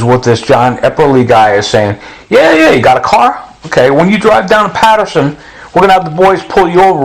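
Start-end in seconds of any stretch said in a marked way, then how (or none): 2.3-7.0 quick, higher scheming voice; mock corrupt official. Retelling the crooked official's offer, higher and quick. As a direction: rattle it off like a crooked cop.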